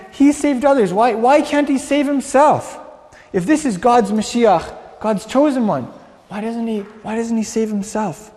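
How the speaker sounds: taunting onlookers calling out; scoffing challenge, pitched high; mocking catcall. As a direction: jeer it, pitched well up over normal talk. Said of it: "they were catcalling and mocking".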